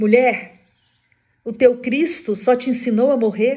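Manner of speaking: loud, high-pitched mocking jeer.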